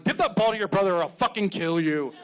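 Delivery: mock-angry dad's threat; threatening dad. Dad ordering son to share the ball, mock menace. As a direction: lay down the law in a hammed-up growing temper.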